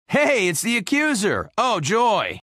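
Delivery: high sarcastic cheer; mock delight. Greeting Ronan the Accuser, mock delight. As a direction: greet a foe with fake joy.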